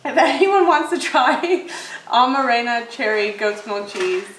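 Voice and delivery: slow, halting, tripping over words; fumbling slowly. Real, not acted. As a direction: stumble through the name with a laugh. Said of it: "Wait, I'm sorry, my brain's spacing".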